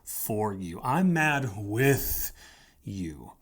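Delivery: slow, drawn-out words of empathy. Shown as a demonstration. Pastor modelling empathy for a betrayed friend, slow and sincere. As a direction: linger on each word like you mean it. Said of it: "empathize and say".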